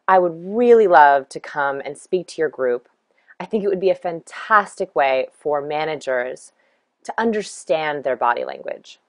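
lightly slowed Southern pace, no real drawl; a mild Southern cadence, mirroring a client on the phone. Shown as a demonstration. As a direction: ease into an unhurried Southern rhythm. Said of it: "what I said sounded more like this".

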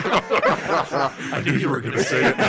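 real laughter breaking through the words; amused, laughing as you speak. Real, not acted. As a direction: talk while cracking up, loud and high. Cracks up at friend's girly joke.

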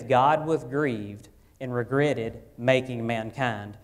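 slow, measured reading of the verse; slow scripture reading. Shown as a demonstration. Pastor quoting Genesis to congregation, slow measured reading. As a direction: read it slowly, word by word, like the text. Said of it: "it says".

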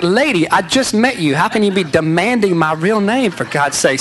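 a mock indignant huff; exasperated. Man protesting to the girl who demands his real name, exasperated.

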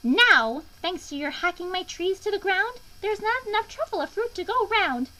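high, loud, scolding creature voice; snapping Lorax. A narrator's reading. Lorax confronting the Onceler over felled trees, snapping. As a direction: scold indignantly, pitched well up. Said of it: "He snapped".

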